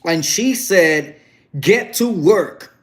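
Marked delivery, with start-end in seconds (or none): 1.6-2.8 slow, higher-pitched imitation of an order; quoted command. Mother ordering Miss View to work, imitated slow command. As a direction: draw out each word of the order.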